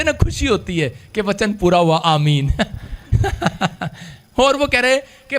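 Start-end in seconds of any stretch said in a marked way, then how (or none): 2.6-3.9 soft, drawn-out ha-ha-ha; re-enacted laugh. Preacher replaying his glee at a believer's complaint, laughing. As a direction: laugh it out as a retold reaction. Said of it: "आप क्यों ऐसे हंस रहे हो".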